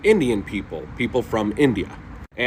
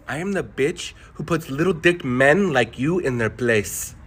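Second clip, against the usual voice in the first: slow, deliberate, lightly voiced contempt; slow cold put-down. Wife putting the rude diner in his place, slow and cold. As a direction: lay each word down without blinking.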